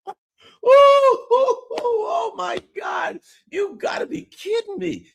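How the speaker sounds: high, loud, squealing mock hilarity; hammed-up laughing. Putin and Iranian guard crack up together, hammed-up laughter. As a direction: laugh helplessly and drag out the words through it. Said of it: "both of them look at, they're like".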